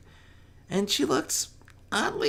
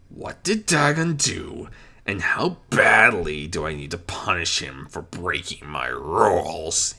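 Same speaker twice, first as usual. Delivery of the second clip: angry demand. Acted. Discord demands what happened, mildly angry. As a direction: demand it, barely holding in anger. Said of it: "he demanded angrily".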